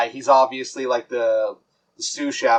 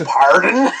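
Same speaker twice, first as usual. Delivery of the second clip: laughing pardon; 4 semitones higher, 4 dB louder than usual. Retold or imitated. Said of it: "I says".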